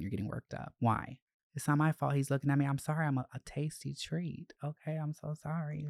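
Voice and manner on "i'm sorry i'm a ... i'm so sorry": mock apology. Mock apology about being tasty.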